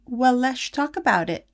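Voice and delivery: a hint of a wise little toddler; calm grown-up tone from a three-year-old. Three-year-old comforts her mom, lightly voiced child. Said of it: "and said".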